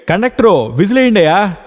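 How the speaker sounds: high, loud shout from a passenger. Acted. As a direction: yell at the conductor to blow the whistle. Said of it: "ఎవరో గట్టిగా అరిచారు". (గట్టిగా అరుపు)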